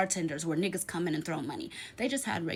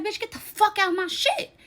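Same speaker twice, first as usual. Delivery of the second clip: much higher, louder mock yell; kicking her friend out of the car, in a higher, louder mock yell; retold yell; 13 semitones higher, 7 dB louder than usual.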